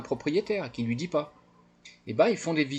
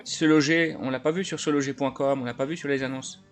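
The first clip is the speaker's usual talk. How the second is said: a lightly voiced eager buyer, louder and higher; naive buyer voice; 6 semitones higher, 5 dB louder than usual. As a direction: play the friendly gullible buyer, a bit louder. Plays naive buyer on phone.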